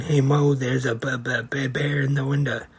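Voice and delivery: mock stammer, tripping on the b; stammered explaining. Curly warning Mo about the bear, imitated stammer. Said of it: "Curly tries to explain".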